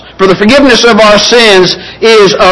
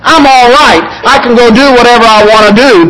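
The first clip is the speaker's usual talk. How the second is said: lightly voiced carefree believer, higher and quick; careless believer; 3 semitones higher than usual. Preacher mocking a believer who treats grace as license, breezy and carefree. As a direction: toss it off like someone who thinks grace covers everything. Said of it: "Grace does not mean".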